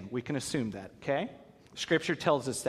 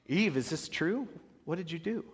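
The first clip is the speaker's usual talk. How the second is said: God asking Eve; 3 semitones higher, 5 dB quieter than usual. Acted. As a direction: ask gently but pointedly. God questions Eve, retold.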